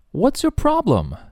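high, exasperated what's your problem; irritated teacher demo; annoyed challenge. Shown as a demonstration. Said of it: "你什么毛病啊你".

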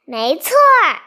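loud, unashamed admission; a naughty girl boldly owning up; brazen. Acted. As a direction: own it without a shred of guilt. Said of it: "他理直气壮地说".

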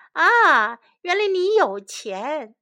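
high, loud cry of discovery. Acted. Shen accuses the beggar of having money, crying out. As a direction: exclaim as if catching someone out. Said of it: "神叫了起来".

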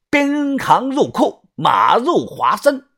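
put-on slow, measured words in a southern accent. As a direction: proclaim it slowly with a southern accent. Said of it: "操着一口南方口音的面具人呢".

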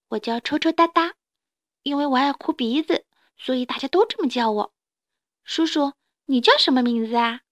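lightly voiced baby dinosaur introducing itself; a hint of a small, curious child dinosaur; friendly little dinosaur.

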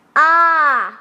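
very loud rallying count; farmer's shout. A narrator's reading. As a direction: belt out the count, urging everyone on. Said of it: "农夫喊道".

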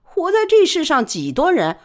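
lightly voiced bitter inner thought; Li Baoli's thoughts. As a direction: scoff inwardly at the boss.

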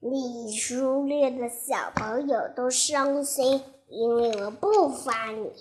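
a grave grown-up reply; stern hunter. Acted. Hunter answers the wolf.

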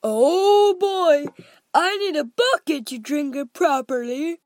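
put-on high, loud boyish glee; thrilled boy who can't get enough; greedy delight. A narrator's reading. Greedy boy relishing the chocolate.

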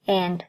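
"and" said as "an"; "and" ending on the n; dropped final d. Shown as a demonstration. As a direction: leave the d off the end of "and". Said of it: "通常在口语中都可以被省略".

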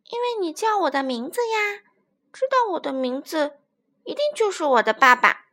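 lightly voiced little child, eager to explain; a hint of an innocent youngster; trusting baby dinosaur.

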